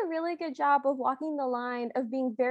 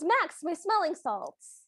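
fake crying; 2 semitones higher, slower than usual. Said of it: "she stops fake crying".

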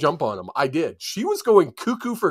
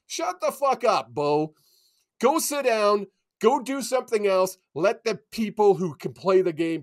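ranting; 4 semitones higher than usual. Real, not acted. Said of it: "Okay, I'm better now".

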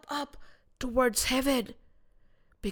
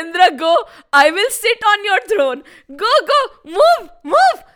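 high, loud, pushy orders; bossy demand; 7 semitones higher, 6 dB louder than usual. A narrator's reading. Trishanku orders Indra off his throne, bossy demand. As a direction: order him off with mounting insistence.

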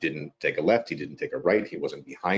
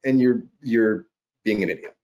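high, exasperated scolding of himself, faster in the middle; mock self-scolding; 13 semitones higher, 4 dB louder than usual. To himself after blowing the audition, high mock scolding. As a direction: chew yourself out in a squeaky, incredulous voice.

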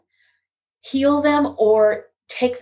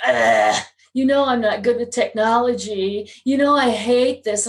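mock whine with a groaned "ugh"; whining petulant child. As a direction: imitate a petulant child complaining, mildly. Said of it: "whining like a petulant child".

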